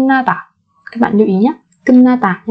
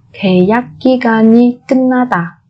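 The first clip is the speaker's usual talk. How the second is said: 계약 기간이 끝나다 run together fast; quick natural repeat; faster than usual. Shown as a demonstration. Teacher gives the fluent native-speed version, brisk.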